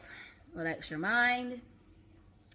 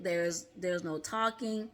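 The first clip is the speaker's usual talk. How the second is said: slower and softer meditation instruction; calm guided meditation; 3 semitones lower, 4 dB quieter, slower than usual. Shown as a demonstration. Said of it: "that's the first thing you're gonna be told to do".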